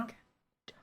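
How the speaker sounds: soft wet tongue click. Real, not acted. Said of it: "I need to do fewer of these tongue clicks".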